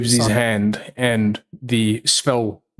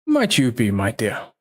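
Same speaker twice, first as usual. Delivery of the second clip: Silas voice. Acted. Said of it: "Silas walks over and he's like".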